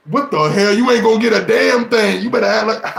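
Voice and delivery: scolding. Real, not acted. Scolding the weak wisher.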